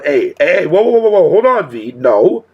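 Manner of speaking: alarmed protest. Real, not acted. Streamer stopping a chatter's claim, alarmed protest. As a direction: cut in with rapid-fire whoas. Cutting in to deny chat's claim.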